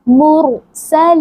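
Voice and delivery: मुरसलीन with thick, heavy r. Shown as a demonstration. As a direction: say मुरसलीन with a full-mouthed र. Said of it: "रॉ को मोटा करेंगे". (मुरसलीन में मोटा रॉ)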